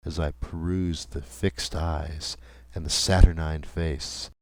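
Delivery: ordinary delivery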